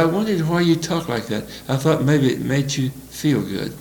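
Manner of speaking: soft-spoken retold reply; real quiet. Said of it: "Real quiet".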